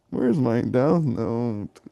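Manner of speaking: slow, drawn-out imitation of boredom; mock bored. Imitating a bored character asking for his notebook, slow mock boredom. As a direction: drag it out as if bored stiff. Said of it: "like, so bored".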